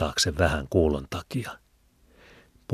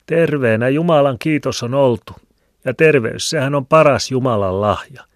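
put-on much higher, louder preachy old woman; pious old woman; 9 semitones higher, 7 dB louder than usual. A narrator's reading. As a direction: lecture him piously. Liena voiced. (hurskas vanha eukko)

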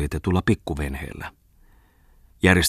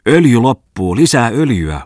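loud, higher shout over the engine; 7 semitones higher, 9 dB louder than usual. A narrator's reading. Bungman yells to the deckhand as the engine dies, loud urgent shout. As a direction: yell the order across the boat. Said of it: "huusi Bungman heitukalle".

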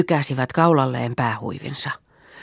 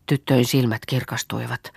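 ordinary delivery, nothing marked

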